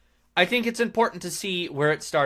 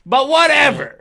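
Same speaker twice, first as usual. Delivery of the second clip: mock dismissive; 12 semitones higher, 9 dB louder than usual. Sarcastic dismissal of critics.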